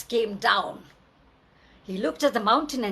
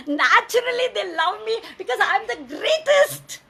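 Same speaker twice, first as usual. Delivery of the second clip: loud, higher gloating laugh through the words; laughing boast; 7 semitones higher, 4 dB louder than usual. A narrator's reading. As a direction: gloat and laugh at your own greatness. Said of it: "And he laughed".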